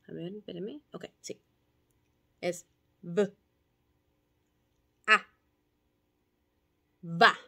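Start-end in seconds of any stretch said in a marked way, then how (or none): 2.4-7.4 "B", "A" y luego "Va"; añadir fonema. Shown as a demonstration. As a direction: sumar sonidos hasta la sílaba. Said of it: "yo digo". (maestra juntando sonidos)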